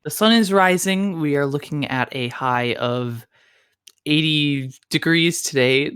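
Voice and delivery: a hint of public-radio morning host; lightly put-on ASMR-style radio voice; NPR radio voice. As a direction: read the time like an NPR host. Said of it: "also known as my N P R voice".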